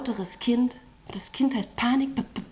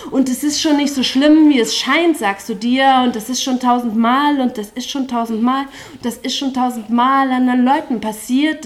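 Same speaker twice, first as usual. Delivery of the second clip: building chorus climax; 7 dB louder than usual. Acted.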